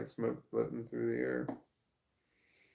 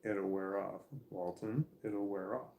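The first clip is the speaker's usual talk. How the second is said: reassuring; 3 semitones lower, 6 dB quieter than usual. Shown as a demonstration. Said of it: "you gotta say their name and say".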